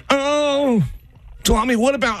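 high chattering mom; chatty mom voice. Retold or imitated. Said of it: "She just won't stop talking".

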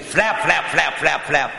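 rapid string of spoken flaps; quick, punchy flap-flap noise; imitated flapping noise. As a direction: rattle off the flaps as a sound effect.

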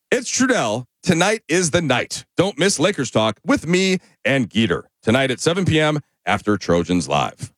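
punchier promo read with extra lift. Shown as a demonstration. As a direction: push the liner a notch harder. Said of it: "you just need a little more".

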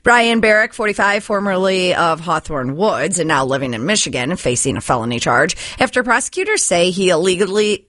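brisk newscaster delivery; news read. Acted. Newsreader giving listeners the local stories, news read. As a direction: read it like a radio news bulletin.

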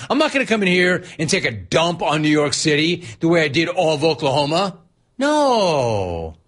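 lightly voiced Gino, hammed-up smug; mock Gino. Host mocks the rival coach talking to the press, lightly voiced. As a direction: play a cocky coach faking humility. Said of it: "Gino was saying things like".

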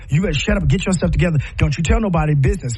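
fast, curt parental scold; hushing a child, fast and sharp. Retold or imitated. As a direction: rattle it off like a strict parent. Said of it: "then they go".

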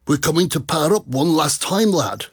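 badly faked Geordie accent, lilting; dreadful Geordie accent. Radio host quoting the singer's tour ad, dreadful Geordie impersonation. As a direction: have a poor go at a Geordie accent. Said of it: "that simply dreadful Geordie accent impersonation".

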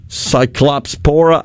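Cyclopspora with a "clops" in the middle; tentative Cyclopspora, sounded like Cyclops plus pora; unsure mispronunciation. Real, not acted. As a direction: say Cyclopspora slowly, as sigh-KLOPS-pora. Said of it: "I had the accent in the wrong place".

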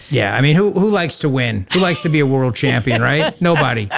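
dry sarcastic teasing; deadpan, rhetorical jabs. Real, not acted. Teasing a Jets fan.

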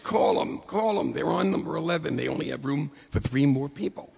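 urgent, rushed retold pleading; mildly hammed-up breathless urgency; hyperventilating friend. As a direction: imitate a friend urging a call right now. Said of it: "he's all hyperventilating".

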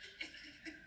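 breathy soft chuckle; delighted little laugh. Real, not acted. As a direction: laugh quietly to yourself. Delighted after his reading.

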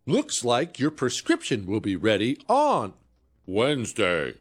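lightly mimicked phone robot, in halting chunks; automated phone system. Phone system confirms a prescription after a long pause, lightly imitated automated voice. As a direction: imitate a recorded system reading back information piece by piece. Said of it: "We all know exactly what that sounds like".

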